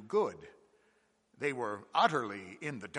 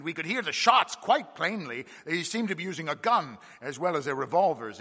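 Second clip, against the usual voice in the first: eager; 3 semitones higher, 7 dB louder than usual. Acted. Mate adds details eagerly.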